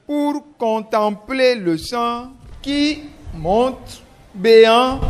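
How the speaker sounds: slow, deliberate dictation; dictating. Shown as a demonstration. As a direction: dictate clearly to the class. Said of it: "on écoute attentivement la dictée".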